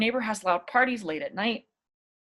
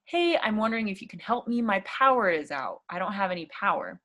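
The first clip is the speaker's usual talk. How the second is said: polite request. Shown as a demonstration. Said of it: "So you start politely".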